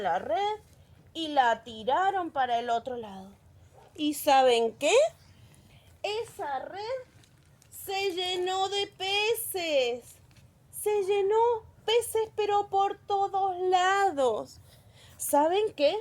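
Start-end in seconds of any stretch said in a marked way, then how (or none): 6.0-14.6 put-on slow, stretched words of wonder for children; sing-song amazement, a little raised; marvelling storyteller. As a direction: draw out each phrase to show how much. Storyteller marvels at the full net.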